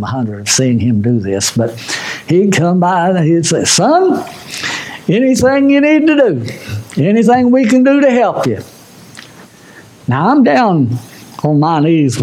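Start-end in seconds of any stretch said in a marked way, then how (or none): 3.6-8.6 put-on raised, gentle voice of an old pastor; kindly mentor voice. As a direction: offer help like a caring elder. Preacher quotes a kindly mentor.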